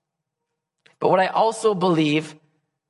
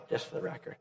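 breathy whispered joke; whispered aside; 16 dB quieter, much faster than usual. Real, not acted.

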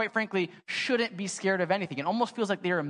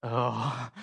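dismayed oh; 8 semitones lower than usual. Retold or imitated. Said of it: "you just see Smalls go like".

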